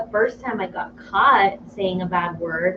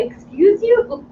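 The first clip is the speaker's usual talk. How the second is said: indignant mother; 11 semitones higher, slower than usual. Retold or imitated. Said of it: "I was like".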